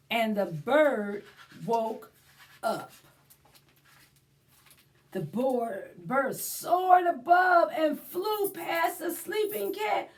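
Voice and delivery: put-on lively read-aloud for children; story time narration. A narrator's reading. Librarian reading to children, animated storybook voice. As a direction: read it like a picture book to little ones. Reads a picture book aloud.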